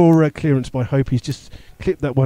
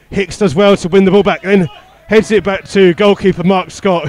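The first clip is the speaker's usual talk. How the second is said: lively, louder football commentary; live play-by-play; 3 semitones higher, 7 dB louder than usual. Real, not acted. Commentator following Froome's attack for listeners, live play-by-play. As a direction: call the match action as it happens.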